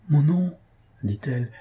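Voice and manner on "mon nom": higher-pitched, delighted realization; joyful discovery. A narrator's reading. Young woman hearing her beloved murmur, joyful surprise. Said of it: "eut un mouvement de joie".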